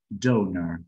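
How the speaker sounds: "donor" with full o then schwa; English donor. Shown as a demonstration. Teacher showing two o sounds in "donor". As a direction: say "donor" as doh-ner. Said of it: "cada O tiene un sonido diferente".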